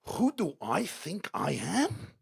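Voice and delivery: slow, deliberate British retort; British-accented indignant question, rising at the end. Acted. Daughter answering the Queen Mother, slow British-accented retort. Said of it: "It sounds better in a British accent".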